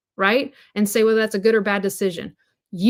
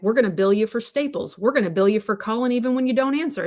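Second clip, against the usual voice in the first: sarcastic. Retold or imitated. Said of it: "I'm being facetious ... very sarcastic".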